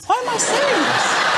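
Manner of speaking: high, slow, laughing squeal; real embarrassed laughter; laughing at himself. Real, not acted. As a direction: cringe at your own joke through a laugh. Embarrassed at own joke.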